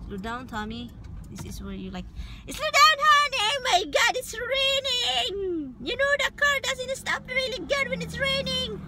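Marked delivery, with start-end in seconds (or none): 2.5-8.8 high frightened shriek at the driver; panicked yelling. Retold or imitated. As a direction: yell it in a panic, high and loud. Panicked yelling at driving husband.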